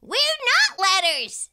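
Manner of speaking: high, loud, drawn-out correction; emphatic exclaiming. A narrator's reading. Exclamation point explaining to the letters, emphatic. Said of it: "exclamation point explained".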